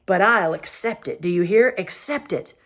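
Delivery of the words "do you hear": louder, barking question; king roaring at his lords; roaring demand. Acted. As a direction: demand they listen. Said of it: "roared Myraz".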